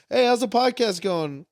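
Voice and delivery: high, chirpy fan question; eager fan. Retold or imitated. Fan asking about his podcast, high and chirpy. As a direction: pitch up like an overeager fan.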